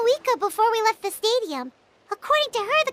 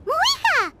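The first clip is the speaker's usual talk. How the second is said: calling out; 7 semitones higher than usual. Acted. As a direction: call her name from afar. Calling out to arriving friend.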